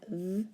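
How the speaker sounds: "V" as a brief buzzing vvv; letter sound V. Shown as a demonstration. Teacher explaining word endings, isolated letter sound. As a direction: say "V" as its sound within the sentence. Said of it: "when we have that V".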